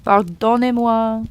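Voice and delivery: slow Pardonnez-moi in an American accent; American-accented French apology. Shown as a demonstration. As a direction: ask pardon like an American tourist. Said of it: "doing it in American accent".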